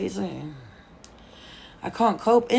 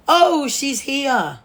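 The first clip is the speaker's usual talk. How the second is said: higher, slow mock fan spotting her; 6 semitones higher, 6 dB louder, much slower than usual. Imitating a fan finding her location, higher mock voice. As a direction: play the fan who just spotted her.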